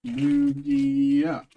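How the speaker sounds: Lugia called out high and loud; excited high call. Real, not acted. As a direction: yelp the name in hope. High pitched wish for Lugia.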